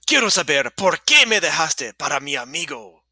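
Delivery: lightly hammed-up demand for answers; dramatic jilted boyfriend. Miguel asking why Isabel left him, mock dramatic. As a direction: act it out with mock indignation.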